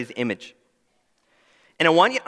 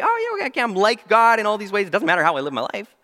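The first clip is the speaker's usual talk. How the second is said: complacent imagined believer; 3 semitones higher than usual. Retold or imitated. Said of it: "we look and we say".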